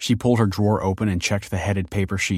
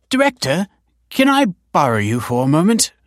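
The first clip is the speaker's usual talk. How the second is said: higher, louder call across the lobby; 10 semitones higher, 7 dB louder than usual. A narrator's reading. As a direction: call the director over. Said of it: "called a receptionist".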